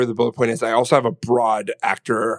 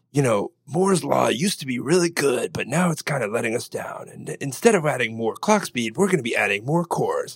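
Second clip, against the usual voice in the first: morning zoo voice. Retold or imitated. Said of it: "that's my morning zoo voice".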